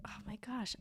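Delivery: exasperated whispered aside; real whisper. Real, not acted. Honking outside, she whispers to herself in exasperation. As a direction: breathe it under your breath, fed up. Noisy street interrupts recording.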